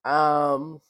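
croaky, hoarse voice; frog voice. Real, not acted. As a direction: talk through a croaky throat. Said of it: "I sound like a frog".

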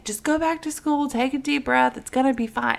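calm her gently, barely voiced; gentle reassuring. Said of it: "I did that gently".

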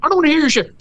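fed up, letting it all out, pitched high; furious outburst. Real, not acted. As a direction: blow up at the whiners. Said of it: "Breathe. Breathe".

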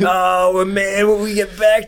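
high, loud whiny alien; alien crew voice. Pretend. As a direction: whine like a worried grunt. Acting alien crew banter.

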